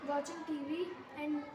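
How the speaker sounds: halting, stumbling over the words; a nervous student losing her place; nervous stammer. Real, not acted. Student in a mock interview, stammering nervously. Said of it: "इतना nervous क्यों हो रहे हो आप".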